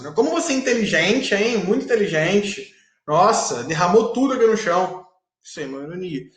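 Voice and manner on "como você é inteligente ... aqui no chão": ironic. Shown as a demonstration. Teacher showing irony to students through intonation, ironic mock praise. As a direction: praise them with obvious irony. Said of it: "ou então pela entonação da pessoa".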